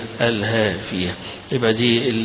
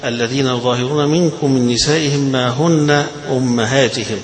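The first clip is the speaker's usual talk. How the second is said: chanted verse; verse recitation. Shown as a demonstration. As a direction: intone the verse. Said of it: "يقول لنا الحافظ ابن كثير".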